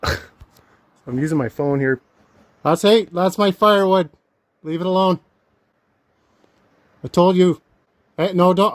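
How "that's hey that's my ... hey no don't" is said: loud, sharp shout to chase off a bear. Real, not acted. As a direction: yell at the bear to back off.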